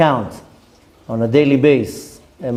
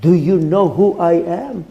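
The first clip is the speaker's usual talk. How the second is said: indignant arrogance; 3 semitones higher than usual. Retold or imitated. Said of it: "Could have been even worse".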